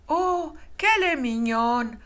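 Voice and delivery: tender. A narrator's reading. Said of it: "s'attendrit la vieille femme".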